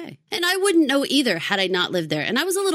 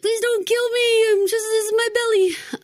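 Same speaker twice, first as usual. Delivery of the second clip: chihuahua voice; 4 dB louder than usual. Retold or imitated. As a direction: beg like a tiny dog on its back. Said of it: "you're like a chihuahua when you roll over".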